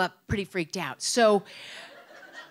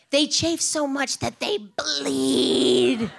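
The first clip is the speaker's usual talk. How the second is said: slow, loud, high, tearful; almost crying; 7 semitones higher, 8 dB louder, much slower than usual. Retold or imitated. Telling the officers her thighs bleed, close to tears. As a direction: force it out near tears. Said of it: "I'm almost crying".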